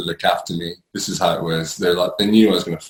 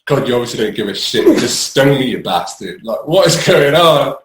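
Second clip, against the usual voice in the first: angry outburst; 4 semitones higher, 5 dB louder than usual. Retold or imitated. Retold raging at God.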